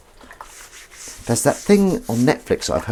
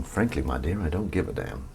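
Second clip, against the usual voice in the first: film quote voice; 4 semitones lower, 8 dB quieter than usual. Retold or imitated. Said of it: "do them in the voice as well".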